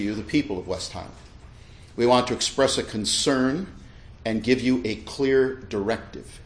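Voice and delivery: measured, emphatic pulpit reading with deliberate pauses; preaching voice. Real, not acted. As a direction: read the statement out firmly, like a preacher. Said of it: "I kinda read it in a preaching voice".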